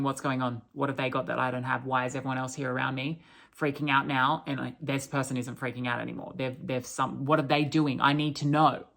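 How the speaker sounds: rushed, anxious questions from a confused person; panicked stranger. Retold or imitated.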